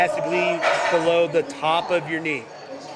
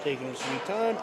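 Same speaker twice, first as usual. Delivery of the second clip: snarky; 5 dB quieter than usual. Real, not acted. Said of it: "sorry if that sounded snarky".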